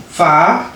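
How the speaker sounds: FA held with a long open A; demonstrated syllable. Shown as a demonstration. Teacher showing how to start father, drawn-out FA. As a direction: stretch FA as a model syllable. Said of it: "Booy prononcer comme si da nga naan".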